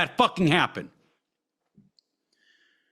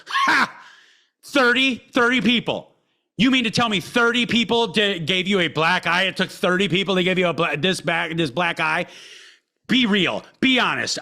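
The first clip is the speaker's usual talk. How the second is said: mocking laugh. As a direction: sneer it out, laughing at the kid's story. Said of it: "She fucking laughed in my face".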